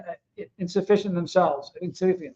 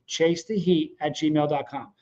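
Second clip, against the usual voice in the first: slow, deliberate email; 4 dB quieter, slower than usual. Real, not acted. Repeating his email slowly.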